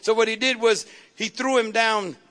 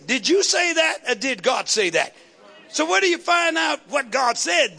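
forceful challenge; 2 semitones higher than usual. Shown as a demonstration. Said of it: "You ought to say".

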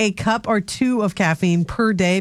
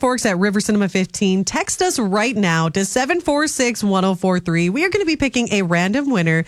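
radio promo read. Acted.

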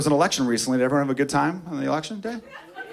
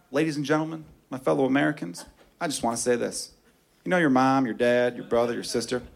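anti-family candidate; 4 semitones higher than usual. Pretend. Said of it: "some guy or some girl at the podium".

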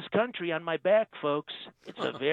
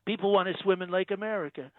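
Trump impression. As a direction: play the president, smug and self-assured. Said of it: "Donald Trump".

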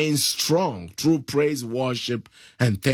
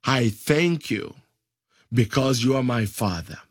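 led prayer; 2 semitones lower than usual. Shown as a demonstration.

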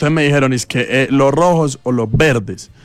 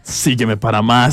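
slow mock influencer sign-off; Sebas; slower than usual. Host mimics a colleague closing his video, drawn-out parody. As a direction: draw it out like a teasing outro. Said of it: "Y Sebas".

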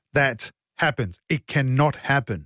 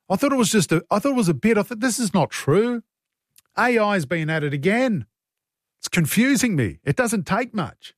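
raised pitch, playing baffled disbelief; acting out his own confused reaction, pitched up; mock bewildered self; 4 semitones higher than usual. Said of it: "I look at that and I go".

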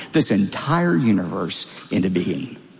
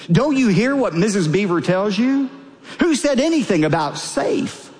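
higher-pitched, lightly indignant storybook reply; Mister Beaver; 6 semitones higher than usual. A narrator's reading. Mister Beaver corrects Lucy about Aslan being safe, mildly indignant. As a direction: read it as mild, incredulous correction.

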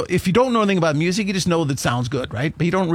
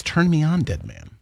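eerie voice. Retold or imitated. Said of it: "a voice says".

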